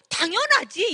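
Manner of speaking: high, loud "당연하지" with a falling end; "당연하지" loud and high with a long falling ending; emphatic of course. Retold or imitated. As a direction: throw out "당연하지" as an obvious yes. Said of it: "제가 안 된다고 했을까요?".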